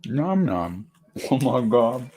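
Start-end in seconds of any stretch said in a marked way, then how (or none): 0.1-0.9 mock chewing. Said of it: "crunching my chip".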